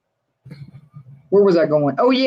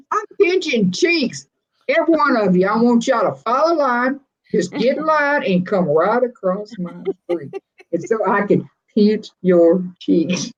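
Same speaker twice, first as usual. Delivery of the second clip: playful granny voice. Pretend. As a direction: coo at the viewers like a grandma. Playful cheek-pinching granny bit.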